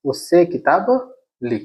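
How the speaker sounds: slow, careful dictation of the correct sentence; patient teacher reading the right answer slowly; slow model sentence. Shown as a demonstration. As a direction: spell it out slowly for the class. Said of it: "ऐसा कह सकते हैं".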